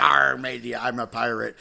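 lightly voiced pirate with a punched "Arr"; a hint of hammed-up pirate growl. Joke teller answers as a pirate at a table, lightly voiced pirate. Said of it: "there was a real life pirate".

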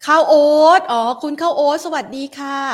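ข้าวโอ๊ต said out loud, pleased it finally clicks; relieved realization. Real, not acted. Host greeting a viewer once she gets the name, bright aha.

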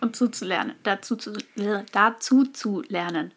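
jittery, tongue-tied stumbling; too much caffeine. Real, not acted. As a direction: trip over the words, over-caffeinated. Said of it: "zu schnell zu viel Kaffee getrunken".

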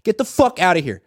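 furious yell. Shown as a demonstration. Reporter showing how Harbaugh yelled at Boldin. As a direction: yell it like a coach throwing him out. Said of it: "Like that".

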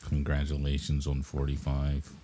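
mock fan voice. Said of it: "enthusiastic interviewee yet".

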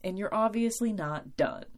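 lightly voiced mom, matter-of-fact and wise; mom's voice. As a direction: mom calmly setting her daughter straight, lightly voiced. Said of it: "And my mom's like".

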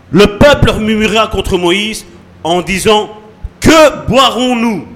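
slow, declaimed Bible reading, rising on the quote; emphatic, drawn-out scripture reading. Acted. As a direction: proclaim the verse to the congregation. Reads the Bible passage aloud.

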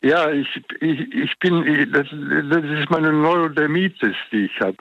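nasal, congested voice; blocked nose. Real, not acted. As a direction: talk through a swollen, stuffy nose. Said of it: "ich spreche nasal". (nasal, verschnupft)

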